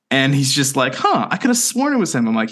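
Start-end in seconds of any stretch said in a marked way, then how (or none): 0.9-2.3 lightly imitated puzzlement, pitched high; quick, high-voiced mock surprise at being corrected; retold puzzled bartender. Bartender doubts himself after a guest corrects him, mock puzzled.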